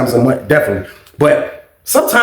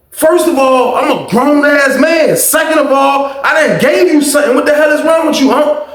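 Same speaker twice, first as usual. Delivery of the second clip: retold angry comeback; 8 semitones higher than usual. Narrator snaps back at uncle.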